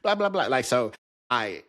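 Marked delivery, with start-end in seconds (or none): 0.0-0.5 much higher, excited mock compliment; hyped compliment. Teasing the therapist with a much higher hyped-up compliment. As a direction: gush like greeting a friend. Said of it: "how black people compliment each other".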